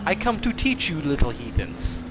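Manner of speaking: put-on light broken-English accent of an old martial arts master, clipped grammar; hint of a wise old master's foreign accent; mock old master's accent. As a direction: lightly imitate the old teacher's accent, calm and solemn. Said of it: "we can actually do the accent of how this story goes".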